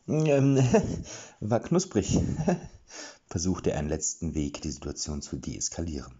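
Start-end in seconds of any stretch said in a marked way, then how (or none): 0.1-3.3 high nervous laugh through the words; awkward laugh. A narrator's reading. Erik, caught out, laughs nervously at Killer. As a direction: laugh it off to defuse trouble. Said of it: "Erik grinste krampfhaft".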